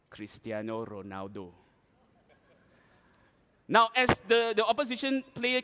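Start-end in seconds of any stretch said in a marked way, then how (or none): 0.1-1.5 low, soft name drop; deep, quiet self-important answer; hushed reveal. Acted. Smug answer to own question.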